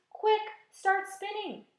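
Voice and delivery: high, loud, slow urgent command; urgent yell. A narrator's reading. James urging the silkworm, loud and slow. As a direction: hurry her up with a shout. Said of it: "yelled James".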